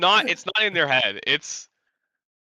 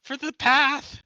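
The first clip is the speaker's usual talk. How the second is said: goblin voice; 13 semitones higher than usual. Acted. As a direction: speak as a grand goblin storm caller. Plays goblin Gobnarl telepathically.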